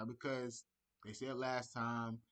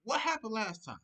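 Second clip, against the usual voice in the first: louder, laughing tease; teasing laugh; 7 semitones higher, 5 dB louder than usual. Pretend. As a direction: poke at him with a laugh. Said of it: "I would've been like this".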